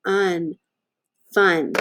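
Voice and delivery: "Fun" said slowly and clearly, sound by sound. Shown as a demonstration. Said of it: "We can sound that out".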